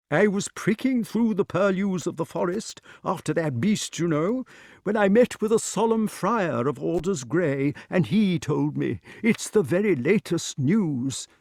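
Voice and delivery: high-pitched character voice; King Pellinore, chatty. A narrator's reading. Pellinore explains how he heard the news, high character voice. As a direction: tell the news in a high, dithery voice.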